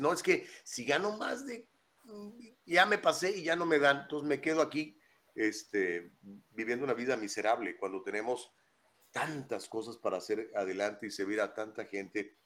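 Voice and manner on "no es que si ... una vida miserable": mock benefits recipient. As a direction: play the person who won't leave welfare, raised and pleading. Imitating someone who stays on benefits.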